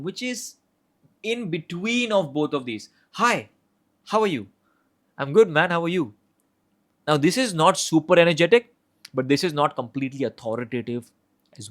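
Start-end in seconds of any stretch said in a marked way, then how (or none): 3.2-6.1 charismatic tone. Shown as a demonstration. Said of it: "The third one is the charismatic tone".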